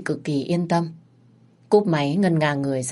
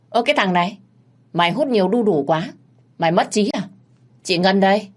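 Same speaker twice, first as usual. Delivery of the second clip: scolding big sister; 4 semitones higher, 4 dB louder, faster than usual. Acted. Ngân scolds Sơn on phone.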